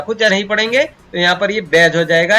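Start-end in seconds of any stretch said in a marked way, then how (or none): 1.6-2.0 "बैज" with the D left silent. Shown as a demonstration. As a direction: say "बैज" with no D sound before the J. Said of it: "यानी डी silent है". ("बैज" में डी का उच्चारण नहीं)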